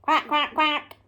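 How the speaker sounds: short run of three quacks; duck quack. Acted. Presenter making the duck's sound for children, quacking. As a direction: imitate a duck. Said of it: "The duck".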